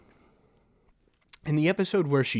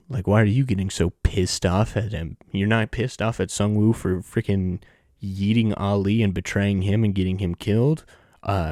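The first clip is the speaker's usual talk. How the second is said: loud, lower, heated rant; angry rant; 4 semitones lower, 7 dB louder than usual. Real, not acted. Vlogger ranting at Gi-hoon over his hypocrisy, loud angry rant. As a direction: lay into him, voice raised.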